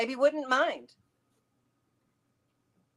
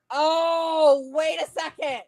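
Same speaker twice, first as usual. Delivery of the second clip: sudden realization; 5 semitones higher, 7 dB louder, much slower than usual. Real, not acted. Sudden realization mid-thought.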